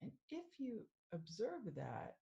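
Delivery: measured meditation guide with long pauses; guided meditation. Acted. Mindfulness coach leading listeners through a sound meditation, unhurried guiding voice. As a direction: guide them gently into stillness, phrase by phrase.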